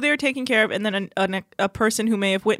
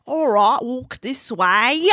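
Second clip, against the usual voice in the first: put-on British accent; much slower than usual. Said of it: "You do the accent".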